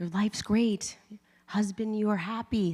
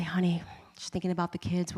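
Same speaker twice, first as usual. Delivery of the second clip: whisper; 5 dB quieter than usual. Retold or imitated. Whispering to husband mid-race.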